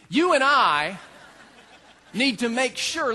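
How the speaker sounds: laughing through it. Real, not acted. Pastor catching himself mid-sentence, chuckling. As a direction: laugh at yourself as you say it.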